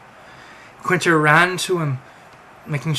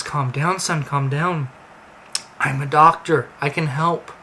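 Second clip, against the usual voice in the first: calm. Acted. Doctor calming panicked Quinter.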